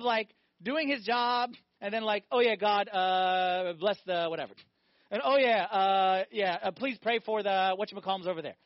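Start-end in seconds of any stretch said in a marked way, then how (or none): 2.3-4.5 mock offhand prayer. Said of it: "Not four months of that". 5.2-8.6 lazy mock prayer. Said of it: "Not four months of that".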